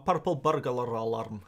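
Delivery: mock Scottish accent with rolled r's. Shown as a demonstration. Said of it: "Ah, Scottish people".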